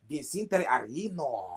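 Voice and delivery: Vicente Arino chuckled out slowly; laughing. Real, not acted. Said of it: "that sound like some seasoning".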